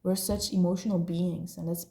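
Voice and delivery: ordinary talk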